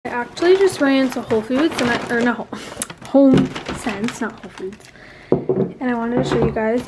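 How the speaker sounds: numb mouth after fillings; talking through a numb mouth; numb from the dentist. Real, not acted. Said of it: "if I'm talking weird, I literally just got cavities filled".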